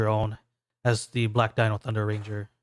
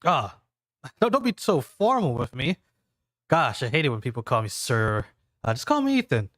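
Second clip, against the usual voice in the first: laughing it off; 3 semitones higher than usual. Acted. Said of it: "Ethan laughs, waves off formality".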